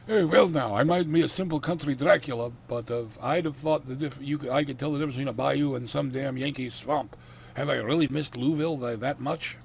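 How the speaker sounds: put-on accented Dracula, opening loud and high, then easing; accented country Dracula. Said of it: "the accent I gave him".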